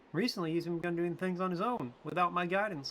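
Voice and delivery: high motherly attendant. Acted. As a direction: pitch way up as a fond caretaker talking to Mort. Voices female character.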